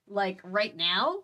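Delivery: dry, slow deadpan. Acted. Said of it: "she deadpanned".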